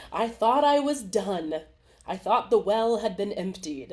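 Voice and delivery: mock lament. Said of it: "I do this one to myself".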